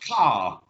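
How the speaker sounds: British "car" with no R sound at the end; non-rhotic R. Shown as a demonstration. Teacher contrasts his own non-rhotic "car". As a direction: say "car" with a long "ah" and no R. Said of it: "when I say car".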